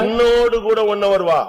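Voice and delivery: high, slow, insistent stress on "என்னோடு"; emphatic drawn-out quote. Retold or imitated. Stressing whom to pray with.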